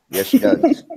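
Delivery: high, sweet imitation of a cute voice; squeaky cute-voice impression; cute girly voice. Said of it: "she has the cutest voice".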